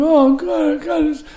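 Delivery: high-pitched mock wail of despair; panicked wail. Blinded actor lying on the bed, panicked wail. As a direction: moan in retold helpless panic.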